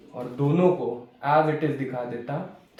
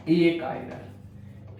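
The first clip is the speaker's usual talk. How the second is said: very slow teaching answer; drawn-out key term; 4 dB quieter, much slower than usual. Real, not acted. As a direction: stretch the term out for students. Teacher answers own class question. (शब्द को खींचकर, धीरे से)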